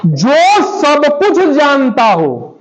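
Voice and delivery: drawn-out teacher's dictation; slow dictation. Shown as a demonstration. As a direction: read it out very slowly for the class. Teacher dictates the phrase to define.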